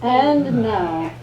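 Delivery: formal announcer calling out; herald announcement. Acted. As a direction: announce her to the ballroom.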